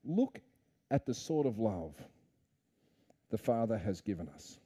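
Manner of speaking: a reverent near-whisper of awe; hushed awe. Acted. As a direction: draw them in quietly.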